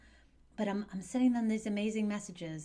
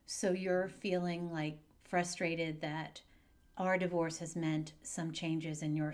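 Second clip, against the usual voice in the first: calm reflecting; slower than usual. Acted. Parent calmly reflecting back.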